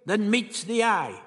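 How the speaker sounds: high, swooping character voice; the Doctor, intrigued. A narrator's reading. The Doctor musing on the place.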